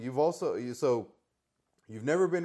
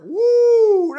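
very high loud whooping yell; Flair woo; 18 dB louder than usual. Acted. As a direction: let rip a signature woo.

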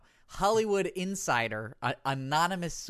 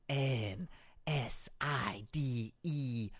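slow spelling; 4 dB quieter, much slower than usual. Acted. Slowly spelling out the word.

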